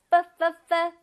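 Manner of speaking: "F, f, f" as short repeated puffs of the bare consonant; teacher sounding out "F, f, f" for pupils to copy; isolated F sound. Shown as a demonstration. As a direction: demonstrate the F sound three times, separately. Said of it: "발음해볼까요?".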